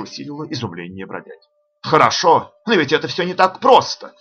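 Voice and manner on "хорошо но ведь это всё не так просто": raised, animated protest; lively, higher-pitched outburst; exclaiming. A narrator's reading. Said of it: "воскликнул он".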